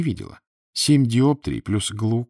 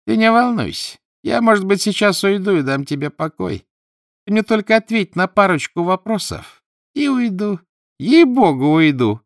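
much higher, louder squeaky voice; squeaky ghost; 12 semitones higher, 7 dB louder than usual. A narrator's reading. The ghost promises to leave, in a high squeaky plea. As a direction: play a shrill cajoling phantom.

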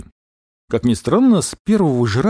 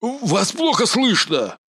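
rattled general; 9 semitones higher, much slower than usual. Acted. Растерянный генерал.

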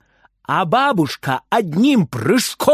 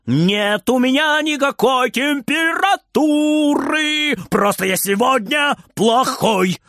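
higher, slower gleeful shout; joyful shout; 8 semitones higher, slower than usual. A narrator's reading. Boy happily shouts he is being bad today. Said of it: "радостно кричит".

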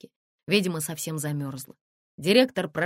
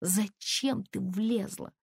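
with anguish; 5 semitones higher, much slower than usual. Acted. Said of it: "сказала Лена с тоской".

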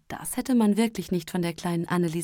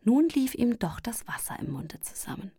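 usual speaking voice

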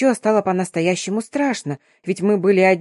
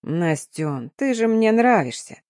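a touch of syrupy softness, mildly voiced; sickly sweet whisper; slower than usual. Guy sweet-talking the girl in the dark park, mock sugary. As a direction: coax her with fake tenderness. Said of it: "сменив тон на приторно-ласковый, прошептал".

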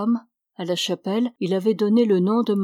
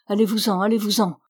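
mildly raised mock shout; 3 dB louder, faster than usual. Priest orders the Irish couple out, mild shout. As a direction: drive them out, lightly raised. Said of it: "cria-t-il au couple irlandais".

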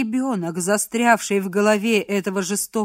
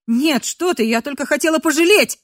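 frightened pleading; 6 semitones higher, 5 dB louder than usual. Acted. Captive pleads in fear.

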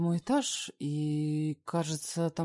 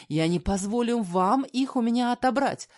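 higher, louder, desperate; mother refusing to lose daughters, louder; desperate cry; 7 semitones higher, 7 dB louder than usual. Acted. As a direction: cry out, refusing to give them up. Mother desperate, rushing to door.

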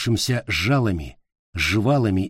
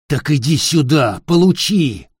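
louder, higher growling dare; growled threat; 4 semitones higher, 4 dB louder than usual. Acted. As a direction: growl the challenge. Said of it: "прорычал Питер".

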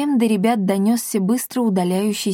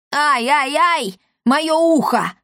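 higher, louder, pained yelp; squeal of pain; 7 semitones higher, 3 dB louder, slower than usual. A narrator's reading. Old apothecary squealing as the woman pulls his ear, yelping. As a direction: shriek as your ear is yanked. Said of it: "взвизгнул старик".

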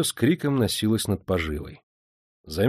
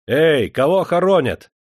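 calling out; 7 semitones higher, 7 dB louder than usual. Acted. Calling out from the carriage.

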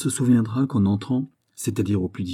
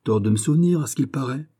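mildly huffy, pitch rising; a touch of pique; offended; 4 semitones higher than usual. Acted. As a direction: complain like a slighted guest. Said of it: "comme un homme fâché".

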